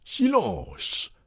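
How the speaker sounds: high, strained yell at moderate volume; mock yell. A narrator's reading. Loiseau anxiously hushing the whole table, yelling. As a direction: call out high as if alarmed.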